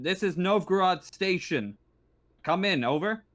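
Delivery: formal comms call from a station controller; station radio operator. Acted. Game master voices station radio operator.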